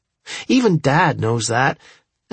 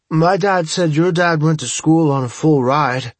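mouth full; 3 semitones higher than usual. Acted. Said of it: "I say with my mouth full".

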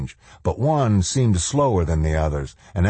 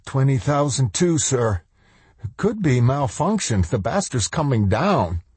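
frightened officer; 7 semitones higher than usual. Acted. Lombard reports, frightened.

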